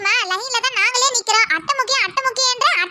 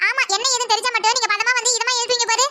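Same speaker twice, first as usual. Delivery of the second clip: put-on higher, whiny young girl voice; whiny teen daughter; 3 semitones higher than usual. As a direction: complain like a spoiled teenage girl. Daughter voice sarcastic.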